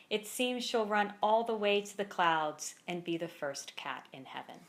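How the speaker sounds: measured poem recital with pauses between lines; poem read aloud at a live reading; poetry reading. Acted. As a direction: read each line deliberately, letting it land. Reads poem from the book.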